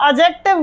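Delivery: "एडजेक्टिव" without its D, ajektiv; silent D. Shown as a demonstration. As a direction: say "एडजेक्टिव" as a-jektiv. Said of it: "उसको कभी नहीं बोला जाता". ("एडजेक्टिव" बिना ड के, अजेक्टिव)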